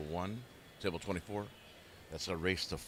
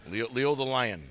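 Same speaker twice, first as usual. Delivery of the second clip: booming announcer-style nickname; loud hype call; 5 semitones higher, 10 dB louder, slower than usual. Pretend. Playful nickname, called out loud.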